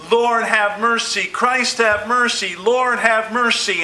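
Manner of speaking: a leper calling out to Jesus on the road; desperate cry. Shown as a demonstration. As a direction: cry out as if Jesus might pass you by. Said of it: "You went".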